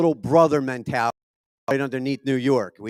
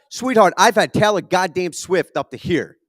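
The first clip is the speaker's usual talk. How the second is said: exasperated dad; 5 semitones higher, 6 dB louder than usual. Retold or imitated. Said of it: "telling her to shut the fuck up".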